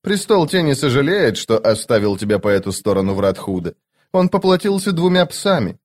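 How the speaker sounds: a lightly voiced stern immortal; Cotillion voice.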